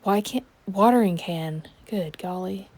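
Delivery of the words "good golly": breathy whispered exclamation; whispering. Real, not acted. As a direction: whisper it under your breath. Muttered to herself.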